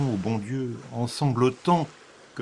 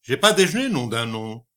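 shouted complaint. Acted. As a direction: bark "J'ai pas déjeuné" right in her ear.

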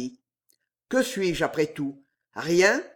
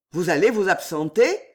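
furious joy; 5 dB louder than usual. Acted. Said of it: "s'écria Damiens avec un frémissement de joie furieuse".

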